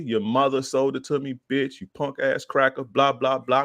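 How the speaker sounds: high-pitched run of mock insults; going off, retold. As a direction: act out cussing someone out. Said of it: "I'm going off on him".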